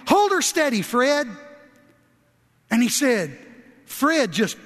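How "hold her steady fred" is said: raised, steady command to a horse; a driver steadying his horse from the wagon, called out; firm call to a horse. Retold or imitated. Man calls to his horse.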